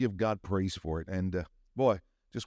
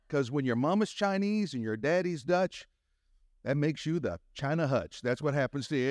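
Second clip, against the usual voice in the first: raised pitch, leaning into the joke; building punchline; 5 semitones higher than usual. Real, not acted. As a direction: sell the China Hutch punchline. Punchline, higher than first telling.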